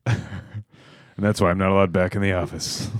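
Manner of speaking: slow noir narration; noir detective. Acted. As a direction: wind it down like a detective's voice-over. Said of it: "It's noir".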